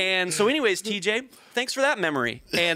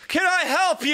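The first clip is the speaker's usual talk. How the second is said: lightly voiced fussing lady; 11 semitones higher, 5 dB louder than usual. June asks again.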